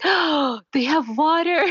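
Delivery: high-pitched imitation of an excited little girl; excited child. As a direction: gasp it out high, like an amazed child. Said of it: "she was very excited".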